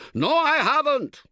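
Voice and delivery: very high, loud, slow yell; yelling back. Acted. Tentmate yells back at the camper, very high and loud. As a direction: hurl the denial back at full volume. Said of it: "he yells back".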